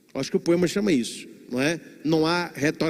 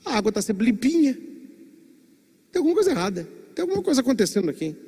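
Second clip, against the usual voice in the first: fish voice; 4 semitones higher, faster than usual. Acted. Little fish voiced in parable.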